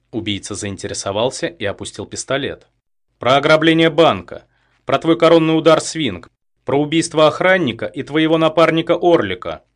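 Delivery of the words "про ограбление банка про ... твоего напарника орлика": high, loud accusing lines; defiant loud list. A narrator's reading. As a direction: fling his crimes at him. Captive lists his crimes defiantly. (громкое обвинение)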